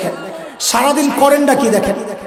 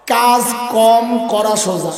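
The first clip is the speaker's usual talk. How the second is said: slow explanation; slower than usual. Shown as a demonstration. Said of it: "আমরা আমাদের ভাষায় সহজে বলি".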